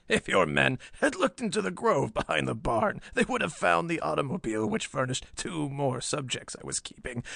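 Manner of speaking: deliberate villain telling his crime; mad professor confessing. A narrator's reading. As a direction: recount the capture with cold self-justification.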